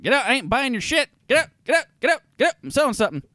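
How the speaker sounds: high shrieking "get out"; shouting shopkeeper. Acted. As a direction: shriek at the pest. Halfling shoos human.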